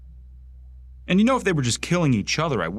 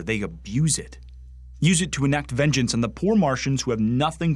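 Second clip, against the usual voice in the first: heated, higher-pitched grievance; indignant rant; 4 semitones higher than usual. Acted. Bigot railing to a superior about skinnies, indignant. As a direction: press each accusation with rising indignation.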